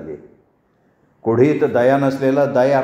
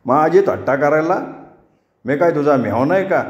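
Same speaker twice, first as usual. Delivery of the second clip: a hint of an offended rustic man scolding; mildly heated village quarrel voice; lightly voiced angry husband; 2 semitones higher than usual. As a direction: growl back at the teasing boy.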